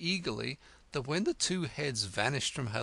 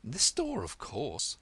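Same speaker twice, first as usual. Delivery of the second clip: irritated; slower than usual. Acted. Alice irritated at the frog, sharp retort. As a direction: snap it back impatiently.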